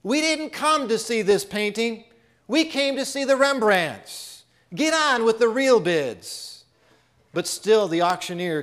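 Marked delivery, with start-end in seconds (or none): 0.0-6.6 raised, impatient heckle from the floor; a bidder fed up with waiting, higher and pushing; angry shout. Acted. Impatient bidder heckling the auctioneer, angry raised voice. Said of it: "Another voice shouted angrily".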